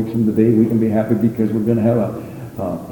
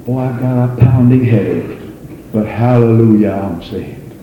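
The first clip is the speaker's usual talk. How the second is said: rejoicing believer. Retold or imitated. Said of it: "The rejoicing of the hope says".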